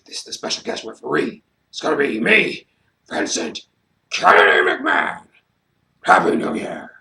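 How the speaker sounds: mock Vince crowing about himself; hammed-up smug chairman; Vince impression. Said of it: "and he's like".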